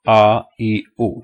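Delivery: A, E, U as separate "ah, ee, oo"; three lone vowels, "ah, ee, oo", falling away; read without spelling. Shown as a demonstration. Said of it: "read it without spelling".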